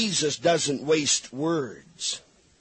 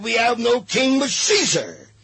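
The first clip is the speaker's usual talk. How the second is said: higher, louder defiant retort; priest's retort; 5 semitones higher, 3 dB louder than usual. Acted. The chief priest answering Pilate, loud defiant retort. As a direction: fling it back at Pilate. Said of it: "The chief priest answered".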